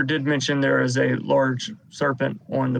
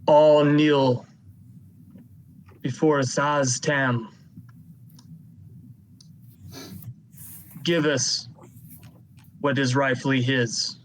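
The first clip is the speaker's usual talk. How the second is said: slow, half-hearted proclaiming yell, barely raised; mock booming yell; slower than usual. Game master voicing a zealot demanding everyone kneel, mild mock yell. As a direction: proclaim it slowly, like a restrained booming call. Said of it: "he sort of yells out".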